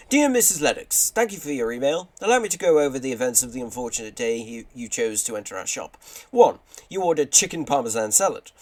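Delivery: hammed-up formal reply, pitch jumping up at openings; lightly acted shop letter voice; put-on letter voice. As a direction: read a complaint reply as a character. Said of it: "do some decent voices for this".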